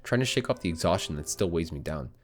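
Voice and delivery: measured, steady storybook read; story narration. Acted. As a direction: narrate the scene like an audiobook. Reads visual novel aloud.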